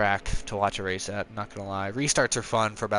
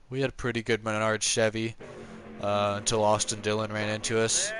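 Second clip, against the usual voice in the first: Paul Menard impression. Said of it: "that's my Paul Menard impression".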